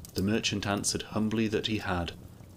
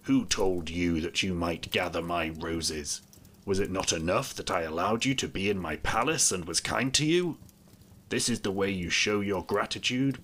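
a lightly voiced angry beast; understated terrible voice, rising into an outburst. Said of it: "in a terrible voice".

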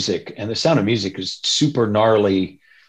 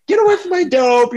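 angry; 3 dB louder than usual. Retold or imitated. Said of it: "chicks are like".

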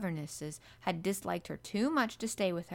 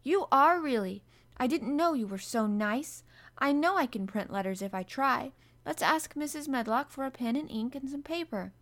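excited; 6 semitones higher, 5 dB louder than usual. A narrator's reading. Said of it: "Mary cried".

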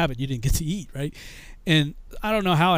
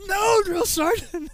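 high, very slow drawn-out yell; hammed-up high shout; shouted refusal; 14 semitones higher, 4 dB louder, much slower than usual. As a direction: sound off the refusal, stretched. Louder repeat of refusal.

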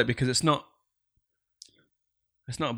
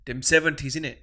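put-on piggybacked street accent; slower than usual. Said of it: "I'm just trying to piggyback onto it".

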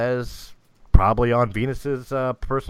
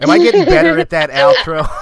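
much higher, louder, playful; playful high excited; 11 dB louder than usual. Real, not acted. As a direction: bounce it up high. Playful after outro.

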